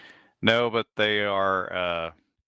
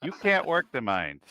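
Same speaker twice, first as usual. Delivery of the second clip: higher, insistent son; pleading son; 7 semitones higher than usual. Acted. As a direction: plead with mother, pitched up. Son argues with mother.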